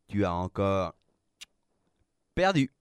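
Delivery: gloat, then crow the last word; jubilant gloating. A narrator's reading. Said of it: "Le maître des poisons jubilait". (jubilation moqueuse qui monte dans l'aigu)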